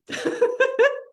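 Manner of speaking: high-pitched giggle; short, high burst of laughter; laughing. Real, not acted. Laughs after ending story.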